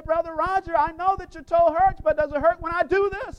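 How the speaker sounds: mock sympathetic question to a hurting friend; mock caring question. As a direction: fake concern before the kick. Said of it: "we walk up to Brother Roger and we say".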